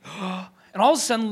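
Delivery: a demo gasp as if going under; gasping like swallowing water; imitated gasp. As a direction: act out a sharp breath in. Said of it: "I took a big".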